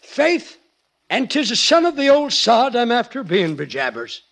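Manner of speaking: stage Irish brogue, hammed up; Irish accent. Husband asked to show his accent, hammy Irish brogue. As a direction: lay on a thick comic Irish brogue. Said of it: "Let me hear both accents".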